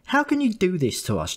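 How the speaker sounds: high, ranting mother's voice; shrill scolding mother; mother's tirade. A narrator's reading. Mother scolding her son over his misdeed, high and ranting. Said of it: "I heard things like this".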